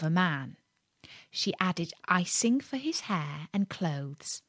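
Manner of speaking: put-on gentle read-aloud to children; lightly paced fairy tale reading; storybook narration. A narrator's reading. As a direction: tell it like a bedtime tale.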